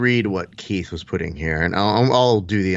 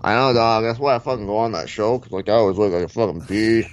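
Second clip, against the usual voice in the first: rambling fighter-bro impression; Diaz brothers. Fighter brothers talking over the host, rambling impression. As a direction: swap boasts as two stoner fighters. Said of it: "the Diaz brothers".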